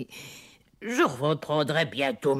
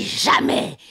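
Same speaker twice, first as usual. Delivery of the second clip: gloating rise; 9 semitones higher than usual. Acted. Witch gloats, rising.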